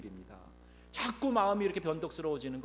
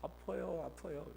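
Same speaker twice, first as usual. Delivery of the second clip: put-on old woman complaining; 3 semitones higher, 7 dB quieter than usual. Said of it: "그랬더니".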